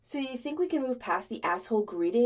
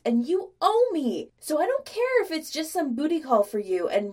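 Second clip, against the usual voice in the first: loud, high, heated tirade; rising rant; 5 semitones higher, 6 dB louder than usual. A narrator's reading. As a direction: build into an insistent, bossy outburst. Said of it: "picked up both speed and volume".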